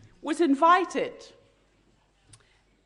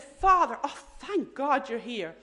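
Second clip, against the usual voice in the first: excited nun. Retold or imitated. Little nun greeting a priest outside the ward, mildly excited. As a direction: imitate a nun's relieved greeting. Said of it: "she was so excited".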